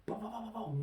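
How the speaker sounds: quoting Scarface in a mock gangster voice; Tony Montana impression. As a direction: ham up the famous gangster quote. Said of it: "like Tony Montana from Scarface".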